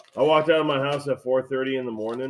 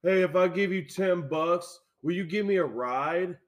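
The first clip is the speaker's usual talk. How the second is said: imitating the stranger; 5 semitones higher, slower than usual. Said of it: "She's like".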